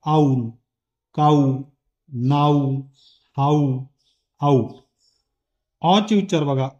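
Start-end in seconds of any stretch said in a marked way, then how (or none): 0.1-4.7 "काऊ" "नाऊ" with a glide from a into u; ow sound demo. Shown as a demonstration. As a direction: glide a into u clearly. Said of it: "आऊ चे उच्चार कोणते होतात बघा". (आ से ऊ की फिसलन)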